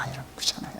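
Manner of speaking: breathy whisper to the congregation; whispered aside. Real, not acted. Preacher confiding to congregation in a whisper.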